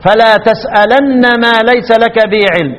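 slow recited line, تسألن with a doubled held nun and no ya; Ibn Kathir reading. Shown as a demonstration. Teacher reciting the verse for the class in Ibn Kathir's reading, slow chant. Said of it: "يبقى ابن كثير يقرأ إيه".

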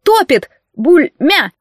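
high indignant yelp choked by water; spluttering indignant cry; outraged drowning cry. Acted. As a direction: yelp in panic while going under. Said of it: "возмутился Нейт".

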